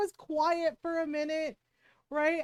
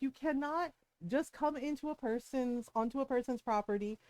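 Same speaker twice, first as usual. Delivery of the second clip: softer, level, calm explanation; calm cop; 2 semitones lower, 4 dB quieter than usual. Retold or imitated. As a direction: explain patiently without heat. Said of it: "he's very calmly telling her".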